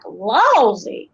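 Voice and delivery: "lousy" drawn out in a mountain accent; Appalachian dialect exclamation. Shown as a demonstration. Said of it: "I could use phrases like".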